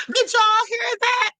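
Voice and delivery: high, drawn-out incredulous question; laugh, then ask it slowly way up high; amused disbelief. Real, not acted. Laughing incredulity after the clip.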